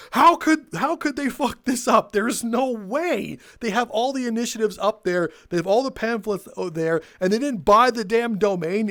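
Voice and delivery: high, loud burst of disbelief; retold outrage. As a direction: blurt it out, half-shouting in outrage. Friends outraged at corporate blunder.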